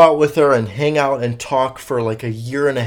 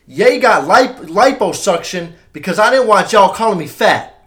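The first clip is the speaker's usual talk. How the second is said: hammed-up imitation, higher and louder; impression of a rapper; 6 semitones higher, 7 dB louder than usual. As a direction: belt it out as an over-the-top rapper impression. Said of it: "I'm gonna do my impression of him".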